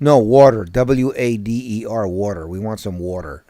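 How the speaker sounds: water corrected to wawder, falling away; daughters' insistent pronunciation. Retold or imitated. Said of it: "my daughters do, they do like this".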